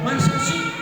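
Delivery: high airy "really?"; mock gossip surprise. Preacher imitating a gossip, airy high mock surprise. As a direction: gasp it like a nosy gossip. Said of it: "Jangan saudara".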